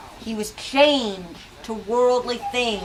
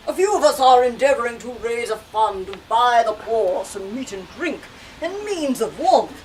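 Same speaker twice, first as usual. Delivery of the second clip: lightly voiced earnest fundraiser; a charity gentleman; 4 dB louder than usual. Teacher reading the gentlemen asking Scrooge to give. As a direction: read it like a polite collector asking for money.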